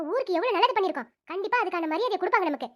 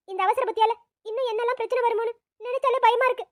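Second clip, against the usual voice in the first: upset, crying self-reproach; tearful confession; 2 semitones higher than usual. Acted. Wife regretting the pain she caused her family, tearful. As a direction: blame yourself through tears. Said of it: "அழுகை நிறுத்து".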